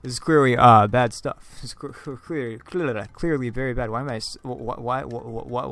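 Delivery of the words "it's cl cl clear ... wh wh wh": real stumbling stutter. Real, not acted. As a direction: catch on every first sound. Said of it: "why am I stuttering today".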